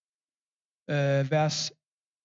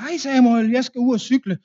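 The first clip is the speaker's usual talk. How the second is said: put-on bright, higher child's call, a touch louder; happy child voice; 6 semitones higher, 4 dB louder than usual. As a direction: voice a cheerful little boy heading off. Preacher voices happy child Lars. (glad barnestemme)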